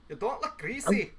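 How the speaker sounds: drawn-out, playful echo with rising end; playful put-on repeat.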